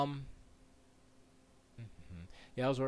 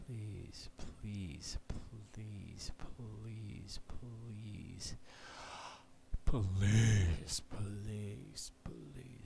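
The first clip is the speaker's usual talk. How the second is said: breathy whispered begging; whispered pleading; 2 semitones lower, much slower than usual. Real, not acted. Streamer begging his setup to work, whispered. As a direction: plead under your breath.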